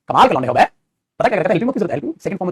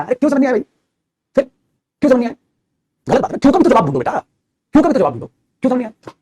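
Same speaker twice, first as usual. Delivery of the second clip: scolding; 4 semitones higher than usual. Real, not acted. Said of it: "डांट कर motivate कर रहा हूँ".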